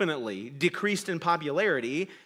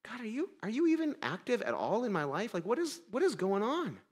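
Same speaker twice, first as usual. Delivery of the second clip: quiet doubt; 3 semitones higher, 6 dB quieter than usual. Retold or imitated. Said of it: "Have you ever thought".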